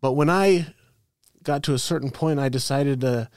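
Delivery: mock-sincere church testimony with a veiled dig; passive-aggressive compliment. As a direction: make criticism sound like reverent praise. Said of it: "passive aggressive about it".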